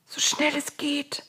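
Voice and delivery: high, soft plea; pleading. A narrator's reading. Frog-plagued Pharaoh begs Moses for relief, pleading. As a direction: beg in a small, high voice. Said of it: "bat der Pharao".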